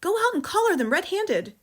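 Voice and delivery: high, loud urgent push; mother urging her husband to catch burglars; urgent hiss. Acted. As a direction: shove him to go catch them. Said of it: "hissed the mother".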